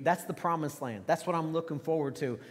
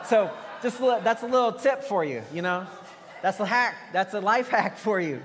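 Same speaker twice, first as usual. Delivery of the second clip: laughing; 3 semitones higher, 4 dB louder than usual. Real, not acted. Laughs at his dog story.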